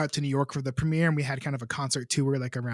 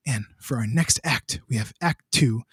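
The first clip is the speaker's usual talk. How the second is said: Ira Glass; 2 semitones lower than usual. Retold or imitated. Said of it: "a bad impersonation of, of, of Ira Glass".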